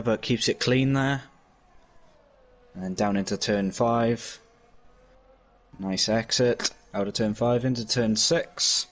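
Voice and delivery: motorsport commentator. Acted. Live on-board lap commentary.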